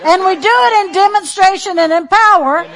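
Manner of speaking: loud, high building preaching; rising preacher cadence. Real, not acted. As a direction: climb into full preaching fire. Preaching rises to full force.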